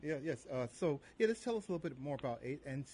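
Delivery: distant, faint phone line; far away. Real, not acted. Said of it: "You sound so far away".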